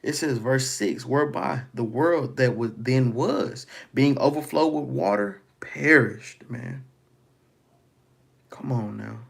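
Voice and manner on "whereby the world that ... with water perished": scripture reading. Acted. Reads scripture aloud.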